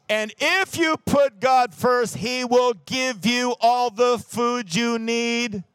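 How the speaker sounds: loud, slow, ringing sermon call; preaching at full force. Acted. Pastor rallying the congregation to put God first, loud and slow. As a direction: hammer it home to the congregation.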